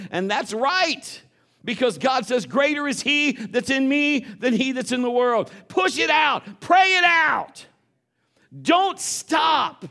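high, loud shouted exhortation; full-force preaching. Acted. Preacher urges the church to push and pray, shouting. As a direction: rouse the congregation, shouting.

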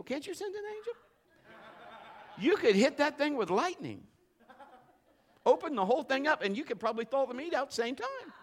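high, laughing bargaining with God; pleading through a chuckle; half-joking prayer with laughter; laughing plea. Retold or imitated. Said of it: "I'm like".

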